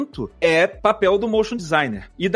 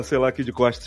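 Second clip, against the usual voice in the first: trying not to laugh; 5 semitones lower, faster than usual. Real, not acted. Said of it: "todo mundo prendendo riso".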